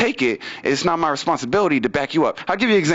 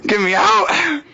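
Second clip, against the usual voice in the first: lightly voiced baby behind bars, higher pitch; mock desperate plea, raised pitch; jailed baby; 5 semitones higher, slower than usual. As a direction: plead to be let out of the crib. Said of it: "just grabbing on the crib".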